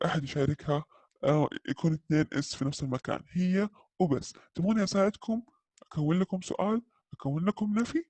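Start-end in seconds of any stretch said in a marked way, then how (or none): 4.5-8.0 lightly voiced, higher and eager; playful helper voice. Teacher voicing doesn't to students, lightly playful higher helper voice. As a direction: offer help like a cheeky little helper. Doesn't personified offering help.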